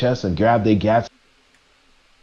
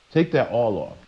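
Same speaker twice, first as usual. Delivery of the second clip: settled quiet command; quieter repeat; 5 dB quieter than usual. Retold or imitated. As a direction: drop it down and repeat it firmly. God commanding the prophet.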